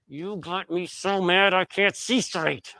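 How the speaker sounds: a hint of an angry mother talking through her teeth; mock the mother's clenched-teeth scolding. Son imitating his mother scolding him, through gritted teeth. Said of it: "talk through her teeth".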